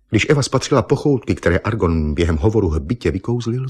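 ordinary delivery

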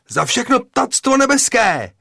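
high, loud, grandiose battle cry; pathetic exclamation. Acted. Mňouk firing at the headmaster's window, grandly pathetic. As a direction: proclaim it with overblown pathos. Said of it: "Zvolal pateticky a vystřelil".

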